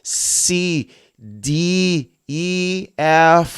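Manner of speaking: C, D, E, F each held out separately; very clear letter sounds. Shown as a demonstration. Teacher leading alphabet recital, clear drawn-out letters. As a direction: recite C, D, E, F lifted and distinct. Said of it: "say the word in a very, very clear sound".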